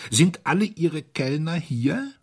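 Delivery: high, rough, stiff questioning voice; rough-voiced. A narrator's reading. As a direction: ask in a strained, raspy tone. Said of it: "in seinem leisen, rauen Tonfall". (rauer, steifer Tonfall)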